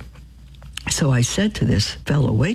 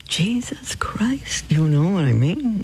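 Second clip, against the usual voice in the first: whispered oath; 3 semitones higher, slower than usual. Retold or imitated. Imitating waitresses swearing casually.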